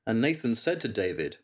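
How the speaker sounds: solemn biblical reading voice; measured King James reading; scripture reading. Acted. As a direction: read it like a lesson in church. Reads Samuel passage aloud.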